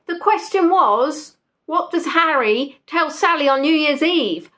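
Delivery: exasperated repeat. Real, not acted. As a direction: say it again so they finally hear. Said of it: "I mean, I said it twice".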